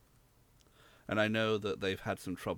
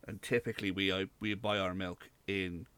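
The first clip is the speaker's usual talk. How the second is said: Irish accent. Real, not acted. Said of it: "I apologise for the bad Irish accent".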